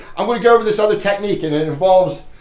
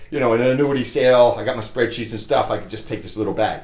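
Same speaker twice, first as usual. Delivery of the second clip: normal talking voice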